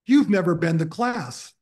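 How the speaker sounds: retold accusation, a touch indignant; mild mock accusation. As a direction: lightly imitate a professor catching a truant. Acted professor confronting absent student.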